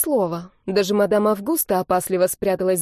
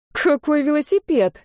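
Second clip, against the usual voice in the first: nervous; 6 semitones higher than usual. A narrator's reading. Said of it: "нервно хмыкнула я".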